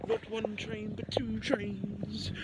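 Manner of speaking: slow put-on posh voice; posh accent. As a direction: drag it out like a posh gent. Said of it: "stop trying to make an accent".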